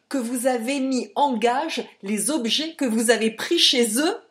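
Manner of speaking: loud, mounting accusation; indignant tirade. A narrator's reading. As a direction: build to the damning revelation. Captain's tirade against the impostor.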